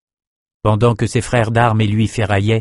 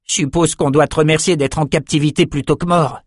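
put-on higher-pitched, lively young man's voice; Jed, a young captive; 6 semitones higher than usual. Jed to his fellow prisoners in the enemy camp, lively. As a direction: play the talkative young companion, pitched up.

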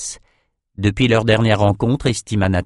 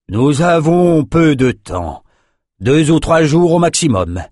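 grim warning; 6 semitones higher, 4 dB louder, slower than usual. A narrator's reading. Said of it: "l'air sinistre".

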